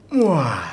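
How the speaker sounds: open-mouthed roaring wah like a lion; lion face roar demo. Shown as a demonstration. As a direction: let out a lion's roar. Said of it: "mengaung kayak singa".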